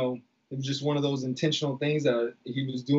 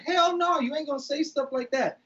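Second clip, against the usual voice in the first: much higher, heated shout of refusal; angry refusal; 9 semitones higher than usual. Retold or imitated. Retelling how he told Frank hell no, heated. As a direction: cut him off hard, no way. Confronting Frank over sister remark.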